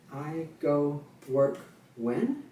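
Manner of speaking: slow, drawn-out rhetorical when; rhetorical question, eyebrows up. Shown as a demonstration. Teacher modeling a rhetorical question for students, drawn out. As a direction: ask when slowly as a setup you will answer. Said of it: "you're asking a rhetorical question".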